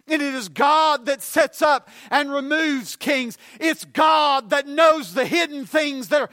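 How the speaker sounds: emphatic, measured cadence, building in force; preached scripture. Real, not acted. Preacher telling congregation what Daniel said of God, preached scripture. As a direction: declare it to the congregation.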